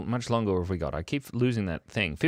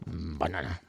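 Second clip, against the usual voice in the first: quiet banana; 6 semitones lower, 8 dB quieter than usual. Shown as a demonstration. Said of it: "I said banana in many different ways".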